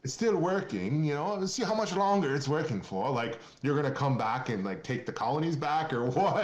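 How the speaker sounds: British MP mocking the colonies, in a hammed-up British accent. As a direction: playfully imitate a posh British MP teasing Americans. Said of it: "he had that British accent, like".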